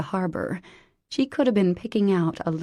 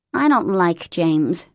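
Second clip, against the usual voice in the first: sullen; 7 dB louder, slower than usual. Acted. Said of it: "Nicky said sullenly".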